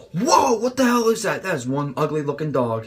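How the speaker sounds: mock startled cry at a giant ant; shocked cop. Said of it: "they're like this".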